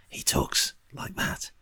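low, hushed whispery impression; imitating Kiefer's whisper. Host mimicking actor's hushed TV delivery, mock whisper. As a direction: whisper it like a snooker commentator. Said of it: "all Kiefer Sutherland does is whisper".

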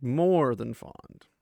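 drawn-out, slow retold line; emphatic confession. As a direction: stretch it out slowly for weight.

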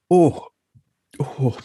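sputtering after a sip goes down wrong; gasping oh as whisky catches the throat; choking on a drink. Real, not acted. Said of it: "That almost went down the wrong way".

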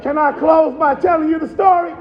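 chanted, sing-song preaching over the organ; preaching climax. Acted. Preacher closing the eulogy with the Calvary story, sing-song whoop.

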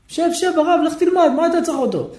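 קול גבוה ומבטל של בני העיר; לבטל את הרב בזלזול קל; בני העיר מבטלים. Acted. Townspeople wave off the rabbi. (תושבי העיר דוחים את הרב, קול גבוה ומזלזל)

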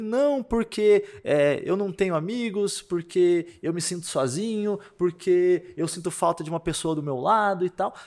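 slow, high, put-on lament; imitating whiny self-pity. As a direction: drag out each complaint like a sorry teenager. Imita as queixas do rapaz choroso. (lamúria imitada, lenta e aguda)

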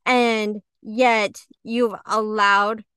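a mild mock of venting at God, drawn out; praying to God in anger, slow and restrained; retold angry prayer. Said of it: "and I was praying".

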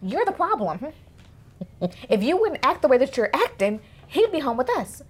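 high, sassy scolding of a mother; calling out mama. Acted. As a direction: act out a daughter telling her mother off. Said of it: "she also calls out her mama".

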